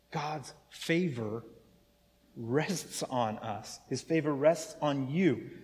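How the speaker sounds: slow, soft "God's favor rests on us"; reassuring the congregation; tender. Real, not acted. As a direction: let it settle gently.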